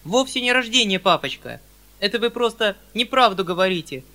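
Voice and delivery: put-on a young girl blurting out grievances; indignant young girl. Сашенька обличает Фому. (возмущённая девочка, чуть громче)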